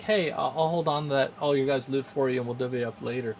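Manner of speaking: calm, super nonchalant. Retold or imitated. Sister's rogue offering to hold the party's loot, nonchalant. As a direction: play it breezily offhand, sinking in pitch. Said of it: "very calmly, super nonchalant, she was just like".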